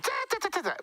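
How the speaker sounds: very high rapid ta-ta-ta chattering; squirrel chatter. Retold or imitated. An angry bush squirrel scolding, in very high staccato chatter. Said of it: "scolding elephant".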